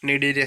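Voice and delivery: Cnidaria said as "निडेरिया", starting on N; silent C. Shown as a demonstration. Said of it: "सी silent हो जाएगा".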